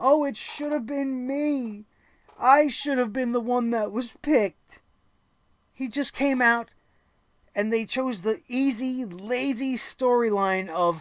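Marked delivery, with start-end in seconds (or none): 0.0-4.8 put-on blubbering, self-pitying whine, fake crying. Retelling a wrestler's promo, mock crying as Dolph Ziggler. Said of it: "essentially starts crying to everybody".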